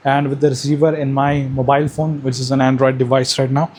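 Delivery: mic with noise reduction artifacts; processed voice, background noise gated out; noise cancellation. Real, not acted. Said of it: "this is the microphone with active noise cancellation on".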